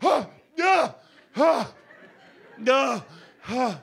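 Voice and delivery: loud high panicked gasps between words; gasping for air. Retold or imitated. Waking on the floor in front of his girlfriend, loud gasping. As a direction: gulp air like you just woke from choking.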